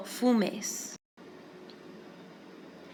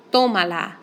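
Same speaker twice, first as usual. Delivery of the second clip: tómala, with the stress on the first syllable, TÓ-ma-la; 5 dB louder than usual. Shown as a demonstration. Teacher modelling the stressed syllable for students, deliberate. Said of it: "I put my accent on the O".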